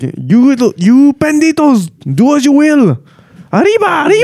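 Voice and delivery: high, rousing mock villain call; hammed-up rallying cry to a gang; bandit chief. Voicing El Guapo unleashing his gang.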